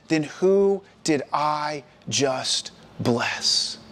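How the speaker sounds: very slow, word-by-word dawning shock; shaken disbelief. Acted. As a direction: draw out each word, understated dismay. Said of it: "Isaac began to tremble and tremble uncontrollably".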